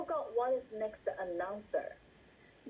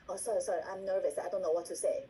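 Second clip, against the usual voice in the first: apologetic, flustered voice; mock nervous apologizing; flustered apology; 5 semitones lower, faster than usual. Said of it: "you keep apologizing".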